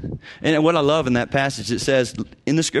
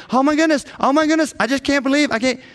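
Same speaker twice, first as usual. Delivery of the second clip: high, hammed-up frantic wailing; mock a counselee thrashing in shock; frantic panic; 10 semitones higher, faster than usual. Counselor imitates a panicking counselee, high frantic wail. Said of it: "frantically thrashing around saying".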